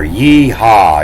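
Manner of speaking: a contained rider's call to the horse; cowboy holler. Acted. Jumping on your horse, a mild holler. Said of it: "jump on your horse and you holler".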